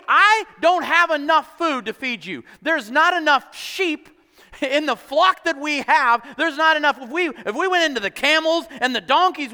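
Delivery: high, exasperated protest, acted out; distraught exasperation. Moses protests to the complaining people, distraught and exasperated. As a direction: throw the problem back at them, overwhelmed. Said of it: "So Moses is distraught".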